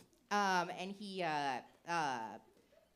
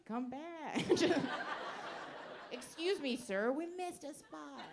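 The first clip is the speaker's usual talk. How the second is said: laughing plea; 8 semitones higher, slower than usual. Retold or imitated. Calling the guy back, laughing.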